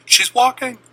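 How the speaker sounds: loud, high burst of joy; parents screaming. Retold or imitated. Parents seeing their daughter walk, a high joyful cry. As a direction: cry it out in shocked delight. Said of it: "My parents started screaming".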